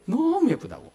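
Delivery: high, doting praise; doting mother. Retold or imitated. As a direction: gush like a proud mom. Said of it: "너무 예쁘다고 막 하는 거예요". (아이를 예뻐하는 엄마의 들뜬 말투)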